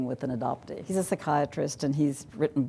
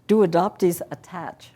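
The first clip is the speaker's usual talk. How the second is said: voiced bird question; 4 semitones higher, 7 dB louder than usual. Bird asks expert.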